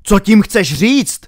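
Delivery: loud, high, slow demand; drawn-out agitated question; alarmed challenge. A narrator's reading. Alarmed challenge in acted quarrel.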